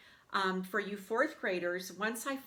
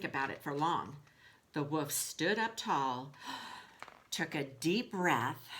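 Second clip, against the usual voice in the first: lively storybook read-aloud to the class; reading to children. A narrator's reading. Teacher reading Wolf to her class in a storybook voice. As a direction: tell the story to the kids with expression.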